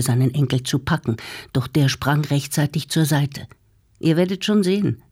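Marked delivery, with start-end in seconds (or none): 4.0-5.0 higher taunting call-out. Acted. Hans Karl taunts his grandfather while fleeing, calling out. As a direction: fling it back over the shoulder as a taunt. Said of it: "rief Hans Karl".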